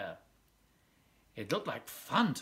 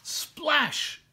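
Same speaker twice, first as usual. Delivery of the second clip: much higher, louder sound-word burst; excited splash; 12 semitones higher, 5 dB louder than usual. A narrator's reading. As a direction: make the splash land big for kids. Sudden fall into water.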